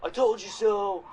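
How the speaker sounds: high, loud, slow smug voice; imitating a smug bigot gloating; mock gloating racist. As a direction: draw out the gloat.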